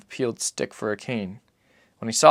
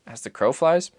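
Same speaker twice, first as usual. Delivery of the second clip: put-on boy's voice; 5 semitones higher, 4 dB louder than usual.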